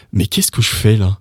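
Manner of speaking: mildly surprised French question; shocked question. Shown as a demonstration. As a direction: lean into "Mais" with a touch of surprise. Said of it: "makes it shocking and surprising".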